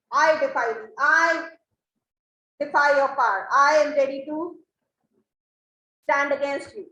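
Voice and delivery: loud, defiant challenge; mock-brave loud defiance. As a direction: stand up bravely to the unseen. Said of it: "he tries to act like a brave man".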